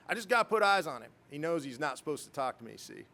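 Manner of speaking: lightly imitated Southern boss; Bo Marzoff, Southern accent. Boss talking his way in, mild Southern accent. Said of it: "I don't have the best Southern accent".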